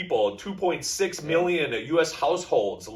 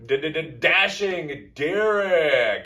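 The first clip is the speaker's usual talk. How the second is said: slow stuttered hype intro; ring announcer; slower than usual. Acted. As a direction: build the name like an announcer. Introducing cohost ring style.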